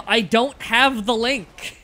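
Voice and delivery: slow and emphatic, fed up; exasperated. Real, not acted. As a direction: drag it out, sick of repeating. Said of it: "For the billionth time".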